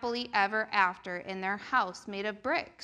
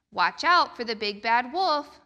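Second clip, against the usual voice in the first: warning; 6 dB louder than usual. Acted. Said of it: "warned the daddy pig".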